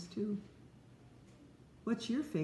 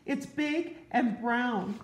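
slow, a bit higher, spooked; mock frightened mouse; 5 semitones higher, slower than usual. Mouse warns Frog of the monster, slow and a touch higher. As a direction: scare the listener gently. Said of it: "cried the mouse".

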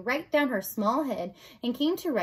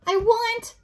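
high, loud wail; crying out; 12 semitones higher, 8 dB louder than usual. Acted. Mig cries out her want in the dungeon, high wail. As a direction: cry it out with longing. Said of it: "cried Meg".

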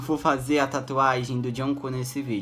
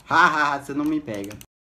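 mock laugh taunt; 2 semitones higher, 5 dB louder than usual. Real, not acted. Mocking the spider.

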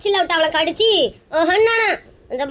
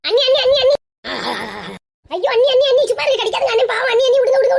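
frantic pleading shout; 6 semitones higher, faster than usual. Acted. Relative shouts at aunt to stop biting. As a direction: shout at her to let go, panicking.

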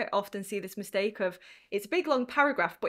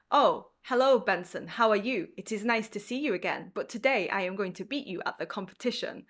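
stiff formal speech. Shown as a demonstration. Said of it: "how do real people, real men speak".

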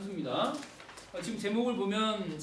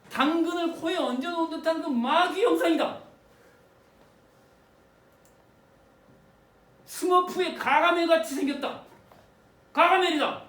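loud, high, hammed-up student outburst; excited mock rant; 7 semitones higher, 7 dB louder than usual. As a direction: shout it out like a stubborn student. Student's opinion acted loudly.

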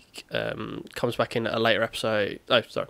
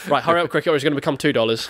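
raised, louder chivvying; playful hard-sell push; mock urging; 4 semitones higher, 4 dB louder, faster than usual. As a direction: hurry him along in a higher voice. Retold pressuring Cricket into a deal.

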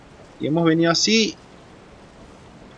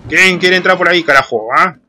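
loud taunt; 6 dB louder than usual. Real, not acted. Gamer daring the hidden monster to come out, loud taunt. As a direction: bellow a challenge into the dark.

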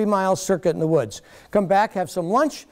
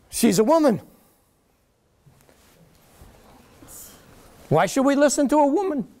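scornful, raised voice of dismissive critics; mocking critics; 7 semitones higher than usual. Critics dismissing Rachel Carson for being a woman, mocking scorn. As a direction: sneer it out like a condescending detractor.

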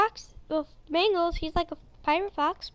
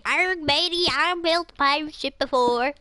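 pirate voice. Retold or imitated. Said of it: "aren't you supposed to be saying".

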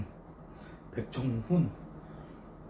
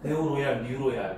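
데오로얄 slurred into 뉴로얄 with a laugh; tipsy slur on 데오로얄; 3 semitones lower than usual. Real, not acted. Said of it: "하는 순간 취한 거야".

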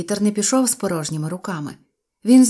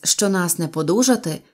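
plain reading voice

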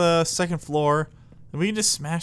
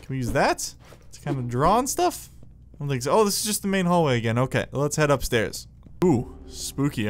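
ordinary delivery

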